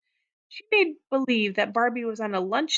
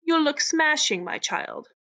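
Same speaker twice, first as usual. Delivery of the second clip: high, loud fake English accent, dropping at the end; 6 semitones higher, 3 dB louder than usual. A narrator's reading. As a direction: put on a grand English accent. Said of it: "in a fake English accent".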